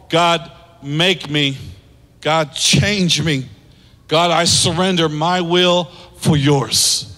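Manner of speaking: slow, hushed surrender prayer. Acted.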